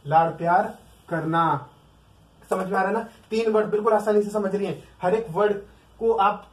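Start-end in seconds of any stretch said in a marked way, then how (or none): 0.1-1.7 slow on लाड़ प्यार करना, stress on प्यार; slowed, tender emphasis. Shown as a demonstration. Teacher dwelling on the meaning of cuddle, slow and tender. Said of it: "that is called cuddle".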